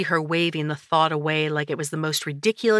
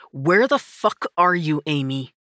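snarled; 4 dB louder than usual. Acted. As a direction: growl it at her. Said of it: "Kurt snarled".

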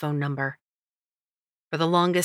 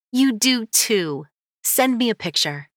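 teasing friend voice; 6 semitones higher, 3 dB louder than usual. Acted. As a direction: tease her like a best friend.

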